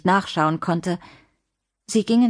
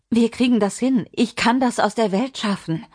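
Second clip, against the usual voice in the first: higher, pleading reassurance; anxious reassurance; 5 semitones higher than usual. Acted. Lina promising John she can fix it, anxious. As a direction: urgently try to talk him down. Mother bargaining with captor.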